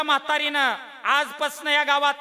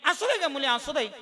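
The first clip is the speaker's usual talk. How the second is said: put-on doting old mother; 3 semitones higher than usual. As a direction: play the indulgent old mother who forgives her own daughter. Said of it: "ती म्हातारी पोटच्या मुलीला म्हणली". (लाडक्या मुलीशी बोलणारी म्हातारी आई)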